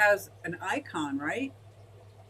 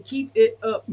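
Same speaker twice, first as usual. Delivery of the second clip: a bright, louder cheer of encouragement, repeated; cheery sticker voice; 5 dB louder, slower than usual. Retold or imitated. Voicing the sticker for the chat, a louder mock cheer. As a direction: cheer it on like a peppy exercising pear. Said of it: "and it's saying".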